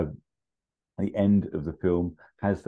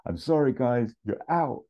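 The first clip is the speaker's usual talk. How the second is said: higher, falsely friendly voice; nice guy again; 6 semitones higher than usual. Retold or imitated. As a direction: dismiss them sweetly. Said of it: "He just goes".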